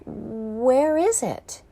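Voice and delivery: whispered, slow and lost; perplexed whisper. Acted. Prisoner in the dark vault whispers in confusion. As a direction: breathe the question into the dark.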